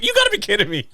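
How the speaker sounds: high squeaky laughing voice; amused mock disbelief. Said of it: "I just started laughing".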